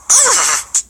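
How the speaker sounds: high, pleased "mm" of tasty food; yummy mm. Shown as a demonstration. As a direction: savour a bite of good cake. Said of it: "when I eat that good cassava cake".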